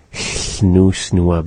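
snoo, snua with hissed side air; lateral fricative. Shown as a demonstration. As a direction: start snoo, snua with a voiceless lateral hiss. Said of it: "we say it all together".

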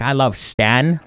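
"Stan" with the a of "man"; jokers' mispronunciation. Retold or imitated. Quoting people joking around, Stan said like the name. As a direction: quote it with Stan rhyming with man. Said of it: "they're always like".

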